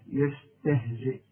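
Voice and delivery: يستهزئ ending on a clear glottal stop; stop on hamza. Shown as a demonstration. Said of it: "وتقف بالهمزة". (يستهزئ بالوقف على الهمزة)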